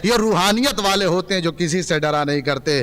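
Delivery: measured preaching to a gathering; sermon conclusion. Real, not acted. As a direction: wind the sermon down with solemn conviction.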